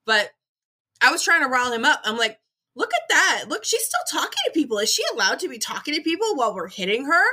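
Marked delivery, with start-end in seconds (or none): 2.8-7.2 high, teasing egging-on voice. Retold or imitated. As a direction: stir him up with mock outrage. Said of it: "trying to egg him on".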